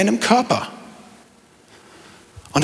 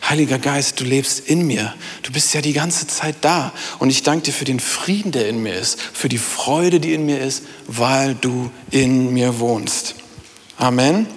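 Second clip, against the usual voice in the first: softer, lower, slowing into a tender prayer; quiet grateful prayer; 4 semitones lower than usual. Pretend. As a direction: speak to the Spirit like a close friend, gently. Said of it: "mit dieser Wahrheit im Kopf".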